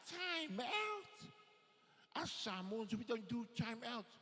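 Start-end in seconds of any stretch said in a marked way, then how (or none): 0.1-2.2 high, stretched-out disbelieving question; incredulous. Acted. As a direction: echo it high and drawn out, baffled. Boy incredulous at unknown term.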